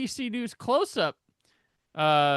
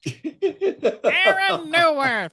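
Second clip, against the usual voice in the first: slow, drawn-out put-on voice with a laugh; Jared Leto impression; 8 semitones higher, 5 dB louder, much slower than usual. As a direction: stretch the name out like a moody actor. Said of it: "Doing your Jared Leto impression?".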